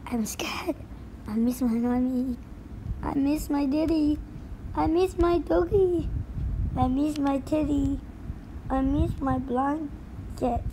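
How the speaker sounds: put-on soft, fast whimpering child voices; small frightened kids listing what they miss; scared little kids. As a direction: kids afraid on the first day.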